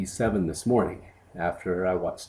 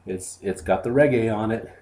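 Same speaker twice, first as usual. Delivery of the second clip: put-on lightly done silly French accent; a hint of a goofy French accent; stupid French accent; 3 semitones higher than usual. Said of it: "in a stupid French accent".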